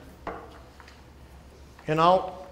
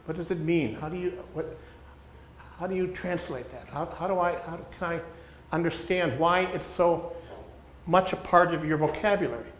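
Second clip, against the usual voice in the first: gentle curious listener; 5 dB quieter than usual. Retold or imitated. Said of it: "we say".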